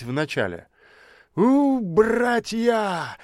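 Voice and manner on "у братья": протяжный высокий вой, очень медленно; завой, как обиженный; возмущённый вой. A narrator's reading. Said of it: "возмущённо завыл он". (бомж воет собратьям, возмущённо)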